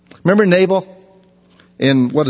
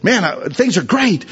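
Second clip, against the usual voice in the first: higher, eager self-satisfied chatter; mock boasting; 6 semitones higher than usual. Christian bragging about blessings, mock eager. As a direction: brag about your devotion. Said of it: "Christians will say that".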